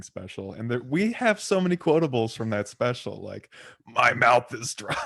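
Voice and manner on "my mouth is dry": loud, drawn-out New York Jewish impression; quoting a stand-up bit in an exaggerated New York Jewish voice. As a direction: stretch it out in a comic New York Jewish accent. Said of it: "you can do the voice pretty well".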